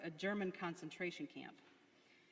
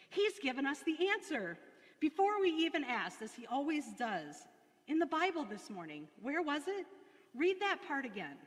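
higher, louder eager rush; excitedly; 6 semitones higher, 4 dB louder than usual. A narrator's reading. Betsy urges Corrie to reread the verse, excited and eager. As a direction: bubble over with discovery. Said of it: "she said excitedly".

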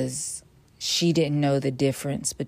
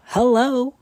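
much higher, louder drawn hello; triumphant hello; 8 semitones higher, 6 dB louder than usual. Real, not acted. Celebrating hitting the one nineties, loud high hello. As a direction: sing it out in triumph.

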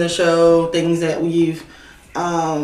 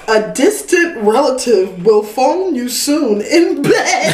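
laughing; 4 semitones higher, slower than usual. Real, not acted. Reading fortune while laughing.

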